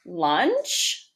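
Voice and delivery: low questioning word with a long upward swoop; reading voice. Shown as a demonstration. Teacher shows the class her reading voice, rising storybook question. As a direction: read it out as a drawn-out question. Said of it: "reading voice says".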